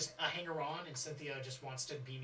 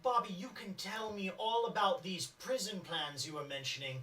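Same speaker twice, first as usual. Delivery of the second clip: lightly voiced eager follower; NPC voice.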